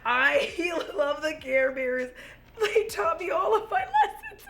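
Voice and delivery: half laughing, half crying; giddy tearful gush; laughing, near tears. Real, not acted. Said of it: "I'm gonna start crying".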